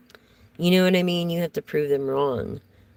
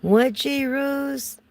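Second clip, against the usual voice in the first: surprised what; 11 semitones higher, much slower than usual. Real, not acted. Surprised reaction to a viewer comment.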